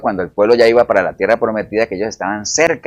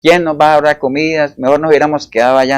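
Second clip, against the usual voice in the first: mock complaining; 4 semitones higher, 3 dB louder than usual. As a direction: imitate the people moaning. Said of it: "ahora estaban quejándose que". (queja nostálgica fingida)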